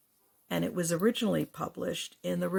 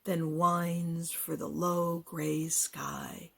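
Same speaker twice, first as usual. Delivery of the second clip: slow, deliberate poetry reading; poem recitation; slower than usual. Acted. Poet sharing a winter poem, slow recitation. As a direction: weigh each image, drawing out the words.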